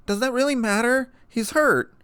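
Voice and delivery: angry outburst at the doctor; frustrated yell. A narrator's reading. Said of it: "she yelled".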